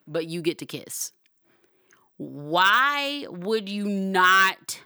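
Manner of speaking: loud, high, emphatic enthusiasm; excited yelling. Real, not acted. Host raving about marriage perks, excitedly yelling. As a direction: get carried away, punching and stretching key words. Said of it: "I'm sorry I'm yelling".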